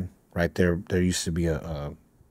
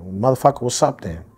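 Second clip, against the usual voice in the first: a sudden hostile challenge, higher and louder; snapping back; 5 semitones higher, 4 dB louder than usual. Retold or imitated. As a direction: square up and fire it back at him. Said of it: "I snapped".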